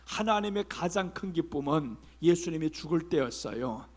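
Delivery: usual speaking voice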